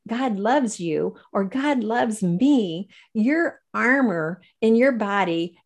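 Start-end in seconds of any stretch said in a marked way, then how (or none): 0.1-1.2 God loves you said very slowly and evenly; slow, deliberate. Shown as a demonstration. Telling the host what to say aloud, slow and deliberate. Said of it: "studies that you just say". 1.5-2.9 God loves me said very slowly, falling at the end; slow, deliberate. Shown as a demonstration. Telling the host what to say aloud, slow and deliberate. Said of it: "studies that you just say".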